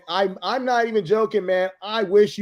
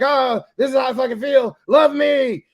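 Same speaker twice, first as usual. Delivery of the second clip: mock needy plea; 5 semitones higher, 4 dB louder than usual. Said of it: "And you're like".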